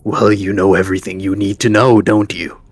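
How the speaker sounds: lightly voiced leader, loud and quick; knowing camp leader. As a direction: play a leader challenging the guest. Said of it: "he's like".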